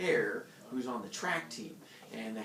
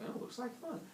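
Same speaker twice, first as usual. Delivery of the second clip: put-on dim kid; 12 semitones higher, 10 dB quieter than usual. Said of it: "They're like".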